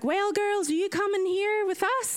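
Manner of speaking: high-pitched, lightly put-on American voice; a hint of an American woman's lilt; imitated American lady. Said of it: "And she was American".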